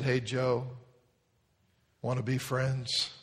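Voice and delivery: put-on tender child's question. Sleepy girl asking tenderly.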